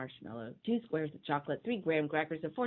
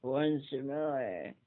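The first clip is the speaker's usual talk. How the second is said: muffled; 3 semitones lower than usual. Acted. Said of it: "muffled in his voice".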